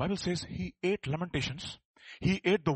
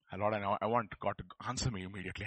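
mock pleading; 8 semitones lower, 6 dB quieter, faster than usual. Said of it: "let's be honest".

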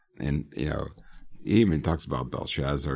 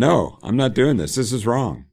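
raised, defiant stand against the captain; firm refusal; 8 semitones higher, 7 dB louder than usual. Retold or imitated. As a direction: push back hard, louder and higher. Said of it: "and said".

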